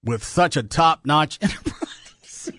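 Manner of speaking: slow line slipping into laughter; struggling to keep it straight; sincere attempt, cracking up. Real, not acted. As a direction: try to stay earnest, then lose it. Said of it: "I'll try it sincerely".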